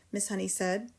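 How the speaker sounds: ordinary delivery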